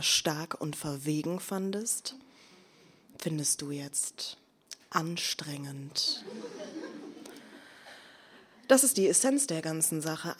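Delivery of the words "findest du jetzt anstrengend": breathy unvoiced whisper, slow, with a faint laugh; slow whisper, a laugh slipping into it. Poet to the man she addresses, whispered.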